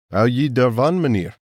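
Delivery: murmured in Afrikaans, lightly voiced; South African murmur. A narrator's reading. South African hunter asking the others, Afrikaans murmur. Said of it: "murmured the South African".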